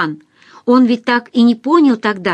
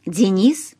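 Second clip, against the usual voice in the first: husky woman's voice. A narrator's reading. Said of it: "хрипловатый женский голос спросил".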